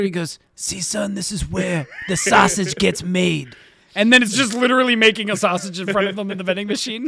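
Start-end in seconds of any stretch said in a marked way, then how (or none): 0.5-3.5 lightly voiced mob dad, drawn out toward the end; a hint of a fatherly gangster, slowing down; mock mobster father. Mobster showing his son the family business, lightly put-on fatherly voice.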